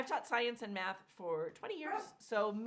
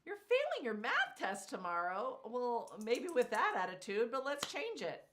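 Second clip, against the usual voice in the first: firm stern teacher voice; 3 semitones higher, 4 dB louder than usual. Acted. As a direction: scold like a teacher with attitude. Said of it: "had to put on my teacher voice".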